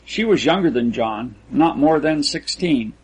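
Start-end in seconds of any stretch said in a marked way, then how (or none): none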